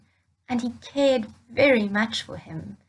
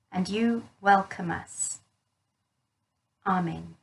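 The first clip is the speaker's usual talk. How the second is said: prayer. Real, not acted. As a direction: lead the little ones gently in prayer. Leads children in prayer.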